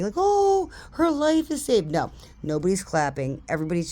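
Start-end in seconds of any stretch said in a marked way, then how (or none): 0.2-1.9 very high mock awe; imagined cheering onlookers. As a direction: gush like an adoring crowd, exaggerated. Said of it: "people clapping".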